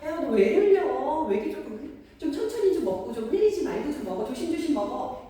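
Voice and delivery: loud, high exasperated outburst into nagging; nagging, scolding parent. Acted. Parent to child who keeps spilling food, nagging. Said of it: "벌써 저희 톤부터가 좀 달라졌죠".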